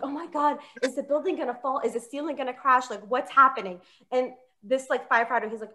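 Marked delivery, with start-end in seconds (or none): 0.0-3.8 mildly panicked, slightly raised pitch; retold panic. Comic retelling her fright at the fire, mildly panicked. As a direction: play a hushed little freak-out. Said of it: "I'm, like, freaking out".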